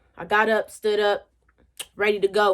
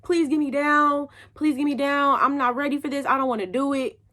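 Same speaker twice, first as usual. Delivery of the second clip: pleading; 3 semitones higher than usual. Retold or imitated. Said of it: "I really sat there crying".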